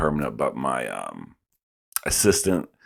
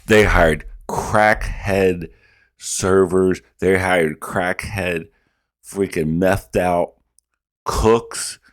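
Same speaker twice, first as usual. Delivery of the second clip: slow emphasis; much slower than usual. Real, not acted.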